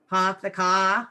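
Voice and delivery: light Boston accent, dropped r in park and car, slow; a hint of a Boston accent, said slowly. Shown as a demonstration. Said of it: "Did I do that accent okay?".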